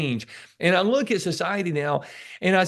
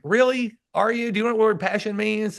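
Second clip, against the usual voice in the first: incredulous retort; 6 semitones higher than usual. Retold or imitated. Mock retort to a passionate person.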